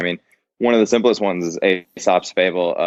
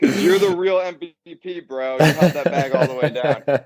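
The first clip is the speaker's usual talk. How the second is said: laughing; 6 semitones higher than usual. Real, not acted. Mocking Ethereum buyer, laughing.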